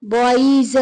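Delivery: बॉयज stretched out with a long eez ending; mistaken -ies plural. Shown as a demonstration. Teacher testing a wrong plural, बॉयज drawn out as bo-eez. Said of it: "क्या हम इस तरह लगा सकते हैं".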